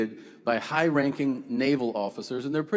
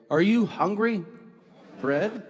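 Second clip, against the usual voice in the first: trained polite guard; 6 semitones higher than usual. Retold or imitated. Guard to feces-throwing prisoner, mock-pleasant offer. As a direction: sweetly offer bread as if nothing was thrown. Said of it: "They're trained for their demeanor".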